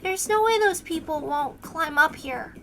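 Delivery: soft and quiet. Acted. Une leads them through the window, soft and quiet. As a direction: keep it hushed and shy. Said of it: "make it kind of soft and quiet".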